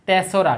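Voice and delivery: তেসরা said clearly as one word, not তিন রা; correct pronunciation. Shown as a demonstration. Teacher shows pupils the correct reading, clear and plain. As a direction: say তেসরা as the right reading of the date. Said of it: "সঠিক উচ্চারণ হচ্ছে".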